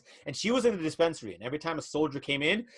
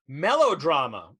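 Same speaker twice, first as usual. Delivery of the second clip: dramatic announcement; 5 dB louder, slower than usual. Acted. Announcing the drawn genre.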